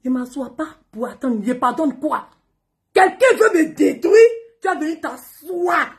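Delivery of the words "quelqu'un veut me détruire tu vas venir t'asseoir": slow, higher, louder, crying; tearful outcry. Real, not acted. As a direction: cry it out. Tearful outburst.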